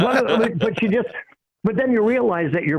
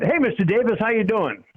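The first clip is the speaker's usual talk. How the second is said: eager, higher-pitched hello; excited greeting; 7 semitones higher than usual. Retold or imitated. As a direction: greet the owner brightly, a little starstruck. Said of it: "and I just was excited".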